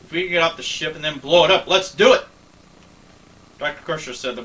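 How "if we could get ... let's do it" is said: eager. Acted. Eager plan to blow up ship.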